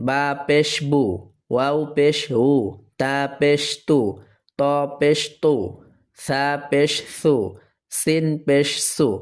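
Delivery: measured spelling, each closing "বু", "তু", "সু" on a clear "oo"; pesh pronunciation drill. Shown as a demonstration. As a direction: recite letter, mark, then syllable "বু" evenly. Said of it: "যদি পেশ দেওয়া হয়".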